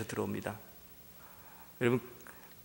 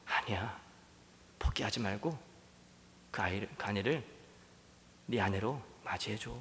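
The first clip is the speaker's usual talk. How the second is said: God's gentle voice. Acted. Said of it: "하나님이 그때에도".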